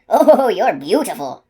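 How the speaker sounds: slow, loud, laughing wonder; awed laughing. Acted. Gardener admiring the unicorn, slow laughing wonder. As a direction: melt into a delighted laugh.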